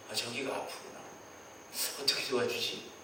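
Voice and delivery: low, quiet, concerned voice of God; a lightly voiced God, gently noticing the hurt; God murmuring to himself; caring God voice. God voiced caring about sufferer.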